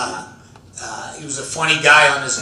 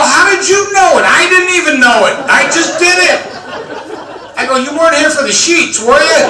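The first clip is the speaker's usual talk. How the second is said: higher, louder flustered yelling; indignant protest; 10 semitones higher, 6 dB louder than usual. Retold or imitated. Husband caught by his wife, yelling in flustered protest. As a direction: protest wildly, caught red-handed.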